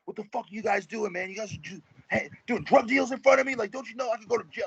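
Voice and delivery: high, indignant yelling at the rappers; retold freak-out. Kicker confronting the rappers about drugs, furious high yell. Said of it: "he started freaking out on us".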